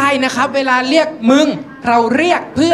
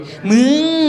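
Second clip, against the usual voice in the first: higher, drawn-out hurt whine; sulky pout; 4 semitones higher, much slower than usual. Acted. Woman to friend, hurt and sulking, pouty. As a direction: stretch it into a pouty moan. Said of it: "คือนอยงอน".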